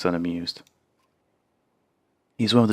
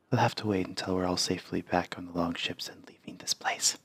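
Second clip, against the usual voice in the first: whisper; 6 dB quieter than usual. Acted. Character speaks in hushed secrecy.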